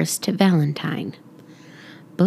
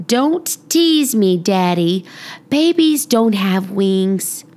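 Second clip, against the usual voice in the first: protesting; slower than usual. Acted. Girl protests to father.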